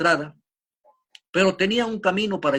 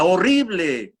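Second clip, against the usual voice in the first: put-on frightened child yelling the word; scared child shouting in a cave; child's shout; 4 semitones higher, 5 dB louder, slower than usual. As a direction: yell it out, clinging to dad. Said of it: "el niño grita".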